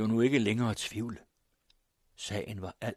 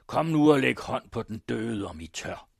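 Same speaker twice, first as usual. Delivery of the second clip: Morten Bruus; 3 semitones higher, 8 dB louder than usual. A narrator's reading. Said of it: "råbte Morten Bruus".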